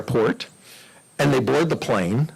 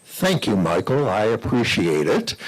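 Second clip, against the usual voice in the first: Charlton Heston impression; 4 semitones lower than usual. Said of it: "Mister Heston in his voice said".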